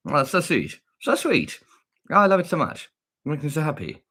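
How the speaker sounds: high-pitched, adoring gush; gushing delight. Real, not acted. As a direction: coo over something unbearably cute. Gushing over cute monkey video.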